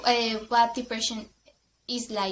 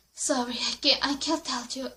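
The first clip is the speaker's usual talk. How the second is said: sad apology; 3 dB quieter than usual. Retold or imitated. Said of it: "She was so sad".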